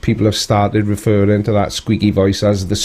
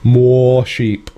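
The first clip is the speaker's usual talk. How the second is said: squeaky sheep voice, lightly pitched up; 3 semitones higher than usual. Acted. Repeats line in squeaky voice.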